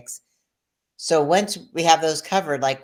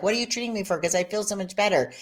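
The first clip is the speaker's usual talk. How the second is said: retold excitement; 4 semitones higher, faster than usual.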